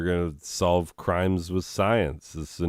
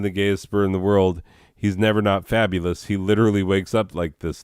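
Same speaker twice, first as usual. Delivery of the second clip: quicker, louder reread of the bird description; faster reread; 4 dB louder, faster than usual. Shown as a demonstration. Reading the bird card again, faster and louder. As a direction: rattle it off fast this time. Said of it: "I don't think I read the full thing".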